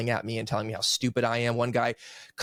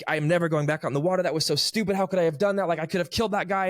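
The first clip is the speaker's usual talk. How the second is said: upset ranting; 5 semitones higher, faster than usual. Retold or imitated. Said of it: "And I was like".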